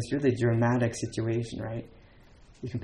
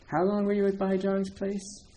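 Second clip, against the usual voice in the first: higher voice for Yao Shan; 8 semitones higher than usual. Retold or imitated. Teacher voices Yao Shan's question.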